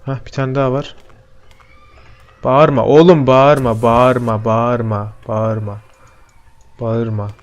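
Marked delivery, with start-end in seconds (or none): 2.4-7.3 fading plea. Real, not acted. Pleading with monster to stop.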